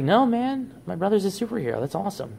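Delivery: high-pitched, gushing retold quote; excited stepsister. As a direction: imitate a thrilled sister, pitch jumping up then settling. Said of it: "And she's like".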